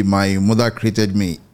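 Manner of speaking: ordinary talk, nothing marked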